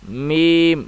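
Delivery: میم stretched slowly, kept out of the nose; drawn-out letter. Shown as a demonstration. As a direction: hold میم long through the mouth. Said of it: "میم کو کھینچ کے پڑھیں گے".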